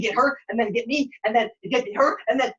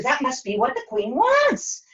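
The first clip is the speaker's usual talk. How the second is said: ordinary delivery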